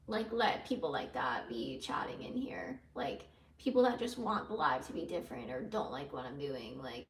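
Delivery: hushed, breathy aside; whispering. Real, not acted. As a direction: drop to a whisper mid-rant. Drops into a whisper.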